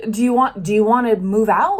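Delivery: upset partner. Retold or imitated. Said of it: "I can even hear some of you saying".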